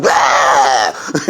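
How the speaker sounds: a low, sudden mock yell to startle the kids. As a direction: jump at them with a gruff bark of noise. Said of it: "start going like".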